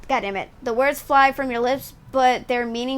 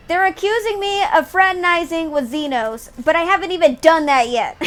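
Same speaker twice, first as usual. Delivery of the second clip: excited; 5 semitones higher, 6 dB louder than usual. Real, not acted. Amused disbelief to viewers.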